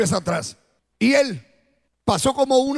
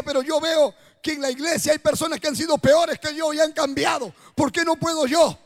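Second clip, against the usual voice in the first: raised, pleading outburst; frustrated cry; 3 semitones higher than usual. Retold or imitated. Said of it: "Y él decía".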